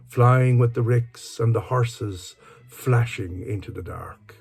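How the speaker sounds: measured, lilting poetry reading; poem recitation. Acted. Speaker reads a favourite Dylan Thomas poem aloud, measured recitation. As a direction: recite it in sustained phrases, pausing between lines.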